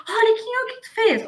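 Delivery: caricatured angry boss; scolding boss. Retold or imitated. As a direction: play the boss storming in on a worker's mistake. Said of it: "eu já chego ali".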